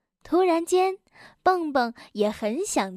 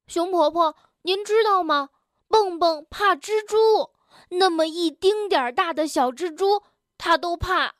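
eager telltale, pitched up; tattling; 4 semitones higher than usual. Acted. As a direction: tell on a friend to granny. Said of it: "去向熊婆婆揭发". (急着告状揭发)

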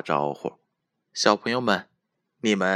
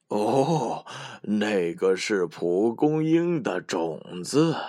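smiling voice; slower than usual. A narrator's reading. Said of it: "山羊爷爷笑着说".

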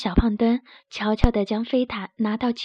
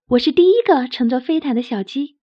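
delighted; 4 dB louder than usual. Acted. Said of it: "卡门开心极了".

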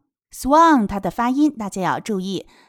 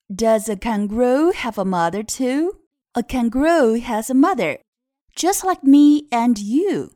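put-on read-aloud to children; 3 semitones higher, 4 dB louder than usual. Shown as a demonstration. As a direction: read it out clearly for small learners.

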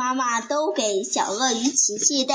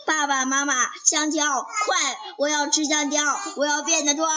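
calling out; 4 semitones higher than usual. Acted. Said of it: "一边跑一边喊".

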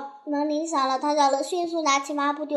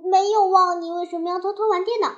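higher-pitched scolding, loud then quick; angry; 5 semitones higher, 3 dB louder than usual. Acted. Mother challenging child over secret play, angry. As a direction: fire the question back crossly. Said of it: "妈妈生气地说".

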